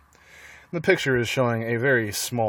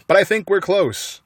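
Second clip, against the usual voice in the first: shouting; 8 semitones higher, 4 dB louder than usual. A narrator's reading. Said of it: "shouted Boggis".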